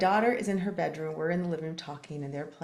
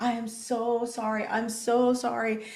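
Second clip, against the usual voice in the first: higher, drawn-out retold apology; profuse apology; 4 semitones higher, slower than usual. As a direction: stretch it out, begging forgiveness. Retold apology to a crying child.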